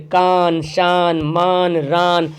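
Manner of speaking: कान शान मान रान with a clearly voiced न; clear final n. Shown as a demonstration. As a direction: finish each on a clean न. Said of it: "साफ साफ नून जाहिर".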